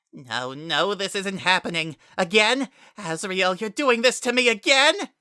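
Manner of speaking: high, loud and breaking with disbelief; a betrayed boy crying out, voice splitting; voice cracking. A narrator's reading. Kara pleads with his friend Azrael, voice cracking high. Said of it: "His voice cracked".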